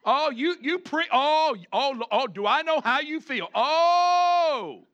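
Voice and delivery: high, loud, wailing sympathy; mock sympathetic congregation. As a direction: groan along with the preacher in hammed-up pity. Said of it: "the congregation is like".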